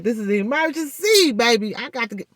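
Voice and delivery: high, urgent plea of "This is an emergency"; frantic call to dentist. Retold or imitated. Woman calling the dentist in a panic, high pleading voice. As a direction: beg the dentist over the phone, high and pressing. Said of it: "I'm like".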